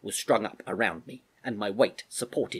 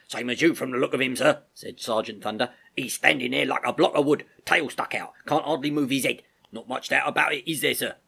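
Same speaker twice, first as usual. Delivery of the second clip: louder, higher sergeant's report; gruff-duty army sergeant; 4 semitones higher, 4 dB louder than usual. Acted. Sergeant giving the Major his view of a sick horse, forthright. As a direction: report to an officer, loud and colloquial. Voices Sergeant Thunder in dialogue.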